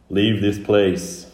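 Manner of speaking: slow, loud command from the Indigo Man; guttural growl. Acted. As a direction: draw it out as a growled warning. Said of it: "guttural growl".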